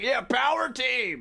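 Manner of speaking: slow, high cheering shout; excited kid cheer. Retold or imitated. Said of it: "and I was like".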